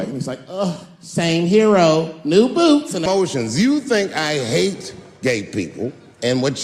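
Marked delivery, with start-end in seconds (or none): 0.5-3.6 slow sighing camp delivery; campy superhero. Acted. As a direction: drawl it with a weary flourish. Superhero's weary catchphrase.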